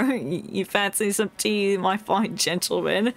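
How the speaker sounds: posh British. Retold or imitated. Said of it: "about British accent".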